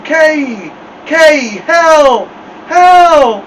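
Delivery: high, loud muffled cry for help; mouth full. A narrator's reading. Boy frozen to the mirror calls his brother, mumbled cry. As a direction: call out with lips stuck fast. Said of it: "sounded like he had something in his mouth".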